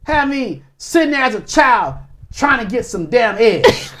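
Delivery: indignant, with a laugh creeping in; real indignation edged with laughter; angry. Real, not acted. Outraged at egg hunts as a child, angry. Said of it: "I'm angry".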